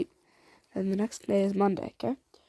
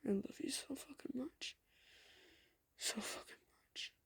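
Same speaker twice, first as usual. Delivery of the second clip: intimate whisper; 4 semitones higher, 13 dB quieter than usual. Acted. Eddie confessing love, face to face.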